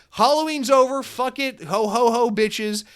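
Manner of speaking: high, loud mocking voice of the worker; mocking employee. Store employee dumping cupcakes, a high gleeful mock voice. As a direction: play the careless worker, gleeful and shrill-high. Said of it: "She's like".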